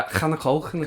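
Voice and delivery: Scouse with throaty k sounds; hammed-up Scouse food order. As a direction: put on a Liverpool accent. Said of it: "that's a bad Scouse accent".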